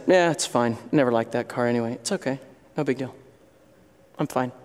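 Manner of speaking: stiff upper lip. Acted. Stoic brushes off a car crash.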